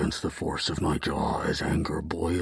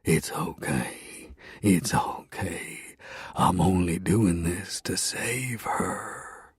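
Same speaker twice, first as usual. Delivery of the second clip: soothing hush; slower than usual. Acted. Hero to dying Bethany, soothing in a slow whisper. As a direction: shush her like a child. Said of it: "shush her like a parent".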